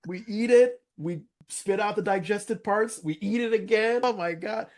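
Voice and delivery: excited. Real, not acted. Telling the podcast co-host about cows, with high excited amazement. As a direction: gush about chewing cud twice.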